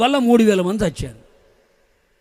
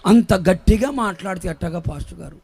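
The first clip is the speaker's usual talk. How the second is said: low, softened voice of a congregant; complaining church member; 3 semitones lower than usual. Retold or imitated. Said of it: "కొంతమంది మా దగ్గరకు వచ్చి అంటా ఉంటారు".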